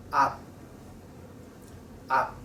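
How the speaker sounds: up said with the lips closed, no release; unreleased p. Shown as a demonstration. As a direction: close on the p of up and hold. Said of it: "You just stop there".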